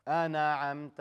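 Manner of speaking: أنعمت with a bouncing echo after the noon; wrong bounced noon. Shown as a demonstration. Teacher shows how people misread Fatiha, bouncing the ن in أنعمت. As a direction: bounce the ن in أنعمت, releasing it early. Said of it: "they recite Fatiha like that".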